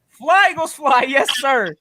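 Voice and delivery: full-chested team chant; firm, proud rallying sign-off. Shown as a demonstration. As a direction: show them how to chant it with conviction. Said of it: "Say it with your chest".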